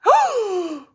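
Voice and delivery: high, loud gasp of surprise; sharp gasp. Real, not acted. Crafter gasping as the stamp lifts off. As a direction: gasp at what the stamp did.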